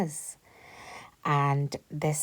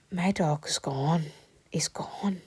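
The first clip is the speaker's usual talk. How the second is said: hushed disbelief, barely voiced; dramatic whisper; slower than usual. Real, not acted. Telling viewers the dog has vanished, in a dramatic whisper. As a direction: whisper it slow, as if the worst has happened.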